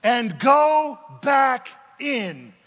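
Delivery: very high, loud, slow shout; God commanding. Acted. The Lord ordering Elijah back to work, booming shout. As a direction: bellow the command from heaven. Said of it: "Then the Lord said to him".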